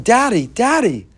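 put-on high, loud, desperate child's cry; crying out for daddy. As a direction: plead like a frightened child held down. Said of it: "He's yelling".

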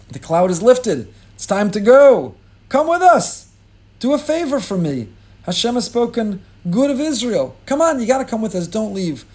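high, loud pleading that keeps rising; begging plea. Acted. Moshe begging his father-in-law to come along, high and pleading. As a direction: beg him not to leave, voice climbing high. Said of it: "a son-in-law is begging his father-in-law to stay".

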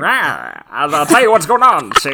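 loud tough-guy mobster voice; 1920s gangster. Acted. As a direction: snarl it like an old Chicago mobster. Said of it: "nineteen twenties gangster".

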